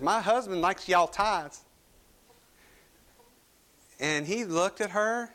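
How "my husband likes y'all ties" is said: Southern drawl. Retold or imitated. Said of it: "April would not be outdone when it comes to southern accents".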